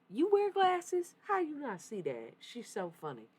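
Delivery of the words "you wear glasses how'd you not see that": very high, loud, drawn-out incredulous question; amazed disbelief. Real, not acted. Medium learns the viewer wears glasses, slow amazed shriek. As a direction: stretch it slowly in delighted amazement.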